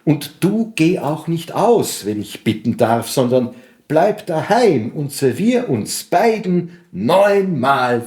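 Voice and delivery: slow, rhythmic verse reading with lifted pitch; poem recitation. Acted. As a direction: recite a wooing love poem in measured rhythm. Recites own translation of poem.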